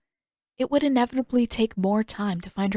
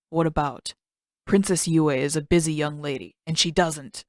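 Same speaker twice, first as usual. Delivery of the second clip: lightly voiced guard, a bit lower, dismissive; a hint of a haughty guard brushing her off; stern palace guard; 4 semitones lower than usual. Guard questions Katara.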